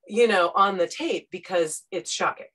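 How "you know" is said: demo gasp. Shown as a demonstration. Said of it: "just hear me go".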